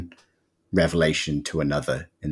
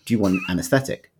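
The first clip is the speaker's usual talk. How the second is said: casual offering tone; 5 semitones higher, faster than usual. Retold or imitated. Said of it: "in the same tone that you would ask someone".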